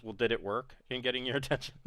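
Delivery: soft, quick wry question with a chuckle; sly aside breaking into a small laugh; half-grinning. Acted. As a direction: ask it through a half grin, hushed and fast. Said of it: "a half grin".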